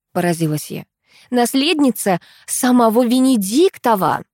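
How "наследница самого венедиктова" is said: mildly solemn, proud announcement; solemn declaration. Acted. Mother proudly naming her daughter's father, mildly solemn. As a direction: proclaim it with mock grandeur. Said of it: "торжественно заявила собеседница".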